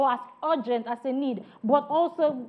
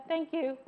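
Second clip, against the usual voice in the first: brief, softer THANK YOU with no soul; level intonation; 2 semitones higher, 6 dB quieter than usual. Shown as a demonstration. Trainer shows a poor reply to praise, level THANK YOU. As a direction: toss out THANK YOU as if keeping it to yourself. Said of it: "the third one is the level intonation".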